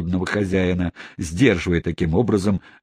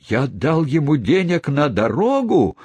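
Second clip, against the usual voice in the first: high-pitched cry of outrage; shouting; 7 semitones higher than usual. A narrator's reading. Gentleman learns he paid for the runaways, crying out. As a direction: cry out, voice climbing to the end. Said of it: "закричал мистер Тапман".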